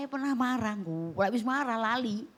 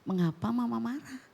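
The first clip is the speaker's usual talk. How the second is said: gentle praise; 3 semitones lower than usual. Pretend. Mother speaking gently to her child, lightly voiced. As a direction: coax the child kindly. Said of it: "Ya ngomong".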